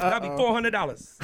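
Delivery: put-on coolly name the price as the girl; a touch of a businesslike call girl; girl from last night. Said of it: "I can do the girl I was with last night".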